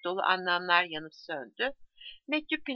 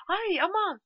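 startled stammer; 11 semitones higher than usual. A narrator's reading. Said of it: "diye kekeledi".

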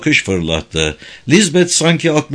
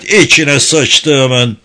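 very slow, louder shouted curse; louder repeated curse; 3 semitones higher, 5 dB louder, much slower than usual. Acted. Fred cursing again in horror, slow loud shout. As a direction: stretch the curse out even harder. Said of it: "diye bağırdı Fred".

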